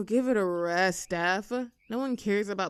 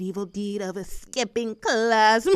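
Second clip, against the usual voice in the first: laughing; 6 dB louder, slower than usual. Acted. Mock-dramatic self-description, laughing.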